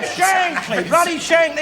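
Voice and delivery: drawn-out, high, emphatic cry of the name; emphatic exclaim. Acted. Complaining to his mate about Shankly, shouted emphatically. Naming the Liverpool manager emphatically.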